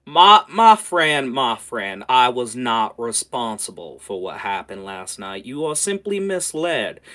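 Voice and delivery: lightly voiced smooth-talking associate; drawn-out, placating character voice; Roy. Roy pleads his innocence to Coldbeard, placating. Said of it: "the familiar tone of Roy".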